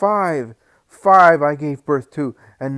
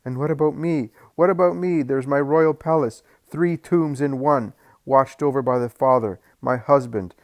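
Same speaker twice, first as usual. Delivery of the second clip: loud, high, desperate shouting; anguished shouting; 4 semitones higher, 5 dB louder than usual. Acted. Maimed mother shouts her grief at Jesus, loud and high. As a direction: cry out in grief and rage.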